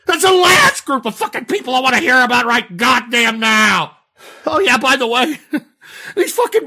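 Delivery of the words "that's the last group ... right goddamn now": angry rant. Real, not acted. Ranting about bronies.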